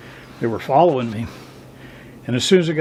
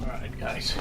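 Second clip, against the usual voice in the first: talking while bouncing in a car; on a bumpy road; 8 dB quieter than usual. Real, not acted. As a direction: voice jolted by a bumpy drive. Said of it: "Sorry for the bumpy road".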